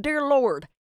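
a put-on dinner blessing; mock grace. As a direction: say an imitation grace, starting strong and settling into the amen. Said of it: "kinda weird to be like".

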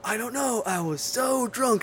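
high, slow sheepish whine; whiny drunk excuse. Retold or imitated. Acting movie dialogue reply.

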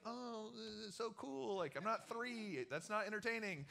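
mock excitement that isn't there; sarcastic boredom. Unimpressed by lame firework.

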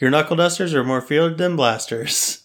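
wooden read stressing "dusters", rising end; bad acting. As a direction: deliver it stiffly, hitting "dusters". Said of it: "she just delivered it like".

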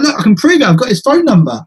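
retold girl eager to prove her point; mock-heated, pitched well up; heated insistence. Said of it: "heated about it almost".

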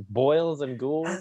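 lightly voiced ghoul host; a hint of the creepy host; Crypt Keeper voice. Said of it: "not even saying the right jokes".

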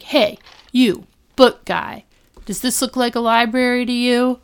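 hammed-up indignant shout; mock yell. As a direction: snap at the guy reading a book. The speaker yells at the book reader.

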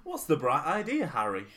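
posh 1930s crowd banter; old-timey newsreel voice. Acted. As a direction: play a jolly old-fashioned Englishman. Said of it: "our impression of the great song".

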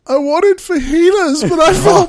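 Amy, still stunned, regretting her order; stunned regret. Retold or imitated. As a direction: sound baffled at your own choice. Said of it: "and she's like".

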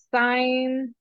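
"Sign" as the English word, silent g; mispronounced name. Shown as a demonstration. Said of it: "what names have you been called".

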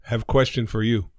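lightly put-on Native American accent, stilted phrasing; mock Native American accent. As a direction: joke child in a stereotyped Native American accent. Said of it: "Sorry about the accent".

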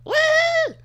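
very high squealed woo; hammed-up fan woo; mock woo. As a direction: let out a gushing crowd woo. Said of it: "I can't help but fucking go".

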